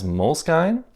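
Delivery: Moleskine as "mole-skine", rhyming with sign; long eye in the end of Moleskine; old pronunciation. Shown as a demonstration. Asking about going back, Moleskine said "mole-skine". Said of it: "go back to pronouncing it as".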